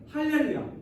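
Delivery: mildly acted praise shout. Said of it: "하나님을 찬양하는 용도로".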